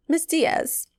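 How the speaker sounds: high mock call of her name; calling her name like the technician; imitating the technician. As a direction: technician calls the patient. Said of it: "He had a very harsh Jamaican accent".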